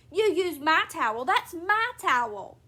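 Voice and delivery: loud, possessive complaint; indignant quarrelling. A narrator's reading. Wife quarrelling with husband over towel, indignant. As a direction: accuse loudly, stretching out the ownership.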